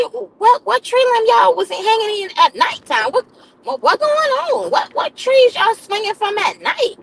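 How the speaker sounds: rising disbelief, half-laughing; what on earth are you talking about; incredulous questioning. Retold or imitated. Nurse asking patients about trees in disbelief.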